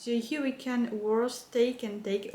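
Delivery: reading English with a French accent; halting, French-accented English. Real, not acted. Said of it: "mon accent anglais, bof".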